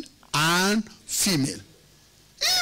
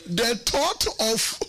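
slowly, word by word; slow emphasis; 3 semitones higher, much slower than usual. Real, not acted. Preacher imagining being that husband, slow emphasis. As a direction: stretch the words out before laughing. Slows for a point, then laughs.

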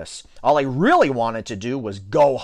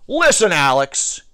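slow, loud, higher warning; annoyed yell; 5 semitones higher, 5 dB louder than usual. A narrator's reading. T J fed up with Alex's jokes, yelled. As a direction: yell it slowly at the joker. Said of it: "he yelled".

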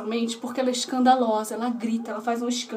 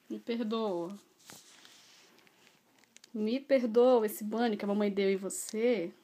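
tender apology; 4 semitones lower, 3 dB quieter than usual. Real, not acted. Apologizing to dog with cookie.

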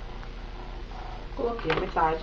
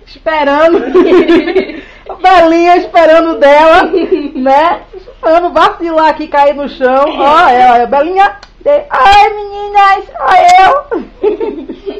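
loud, high giggling through words; laughing; 5 semitones higher, 13 dB louder than usual. Real, not acted. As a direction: laugh helplessly while talking. Laughing at the dog waiting.

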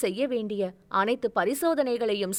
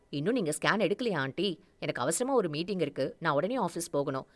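lower, fast man in a hurry; hurrying impatiently; 5 semitones lower, 5 dB quieter, faster than usual. Acted. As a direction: rush the doctor along. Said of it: "அவரை அவசரப்படுத்தினான்". (தாழ்ந்த குரலில் அவசரப்படுத்தல்)

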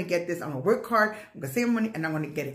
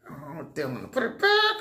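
guilty inner voice; 4 semitones lower than usual. Retold or imitated. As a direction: squeak it like your nervous conscience. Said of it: "I'm like".

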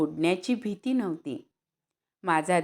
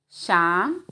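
sweet call; 4 dB louder than usual. Acted. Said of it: "अशी आईने गोड हाक मारली".

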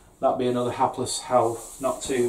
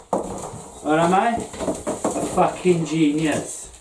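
put-on slow, drawn-out Welsh accent; 3 semitones higher, much slower than usual. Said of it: "Sorry about the Wel-, Welsh accent".

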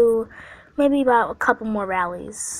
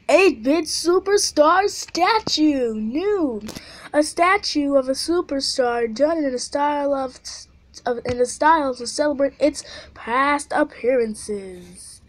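prize announcement read-out; 4 semitones higher than usual. Acted. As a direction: read it like a showcase announcer, stretching the title. Reads out prize description.

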